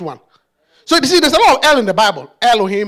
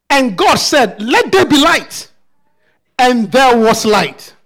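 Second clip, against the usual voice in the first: booming biblical narration. Acted. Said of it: "let's read the scripture".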